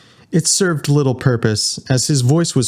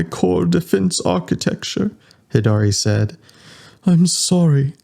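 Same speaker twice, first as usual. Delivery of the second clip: higher, even, measured ship computer; lightly voiced calm ship AI reporting damage; 7 semitones higher than usual. Ship AI Hidari reports breach to the crew, calm measured.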